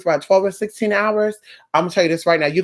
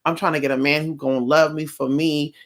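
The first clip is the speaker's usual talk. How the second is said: a client asking softly and a little lower; pleading client; 4 semitones lower, 4 dB quieter than usual. Acted. Client to Mystic asking for blessings, softly pleading. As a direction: quietly plead for help, lightly acted. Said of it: "And you're like".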